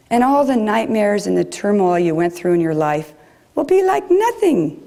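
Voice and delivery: a hint of a German accent, rising high at the ends; lightly imitating an older German woman's accent; a touch of German accent, quoting her words. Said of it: "she had this great German accent".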